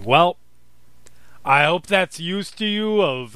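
big, booming, arrogant overlord; booming giant voice. Acted. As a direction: boom it out like a towering demon. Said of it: "and now it's this giant booming voice".

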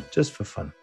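ordinary talk

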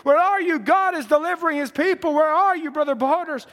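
mild urgent calling out; retold screaming. Preacher calling for Brother Borders amid deliverance, retold screaming. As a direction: call out for a lost friend, short of a full scream. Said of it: "I was screaming, saying".

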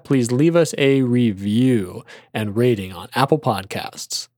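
normal talking voice

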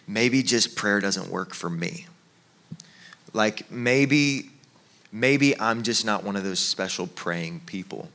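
slow, low, mildly deflated; quietly resigned, a touch of self-doubt; discouraged. Acted. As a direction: give up on it softly, with hesitant pauses. Acting out a discouraged pray-er.

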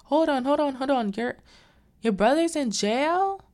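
high, loud, incredulous mock questioning; trying to understand. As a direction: imitate someone halting everyone in disbelief. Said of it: "She's trying to understand what's going on".

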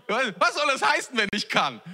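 high start falling sharply on the last words; mock-affronted rhetorical question; indignant echo. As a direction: throw the doubt back, incredulous. Jesus indignantly echoes the father's words.

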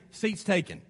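low, soft brush-off; unwelcoming. Acted. Face telling a visitor the seat is taken, unwelcoming. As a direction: turn the newcomer away quietly. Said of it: "or does your face say".

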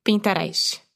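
"Pinterest" said the Brazilian way, pin-ta-rice; Brazilian Portuguese pronunciation. Shown as a demonstration. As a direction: read "Pinterest" with a Brazilian accent. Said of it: "como os brasileiros falam".

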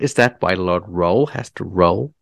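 put-on American tourist accent. American tourist asking about an odd English custom, mock American accent. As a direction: imitate an incredulous American tourist. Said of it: "That was a brilliant American accent".

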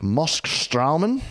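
Moskstraumen in a German accent. Real, not acted. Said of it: "said it with a German accent".

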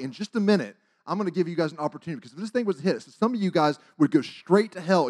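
urgent, forceful sermon delivery; preaching. Retold or imitated. Teen preacher warning schoolmates to decide, forceful preaching. Re-enacts his altar-call preaching.

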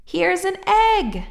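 put-on high, slow, loud child's call; excited shout. A narrator's reading. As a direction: call out proudly with the egg. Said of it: "shouted Jack".

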